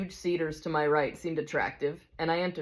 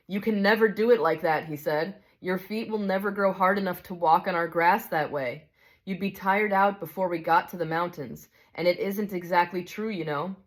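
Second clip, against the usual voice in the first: gentle bright spirit. Acted. Bright spirit calmly answers the big ghost, kindly.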